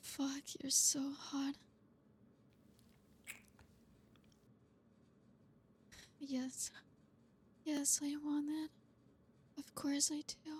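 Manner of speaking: breathy intimate whisper. Acted. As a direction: hush it right at his ear. Making out with partner.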